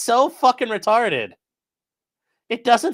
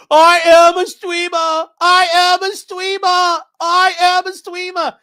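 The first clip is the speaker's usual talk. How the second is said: high, loud, slowed mock chant; mocking Good Doctor character; 10 semitones higher, 7 dB louder, slower than usual. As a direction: hammer it out like the TV character. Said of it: "that Good Doctor show".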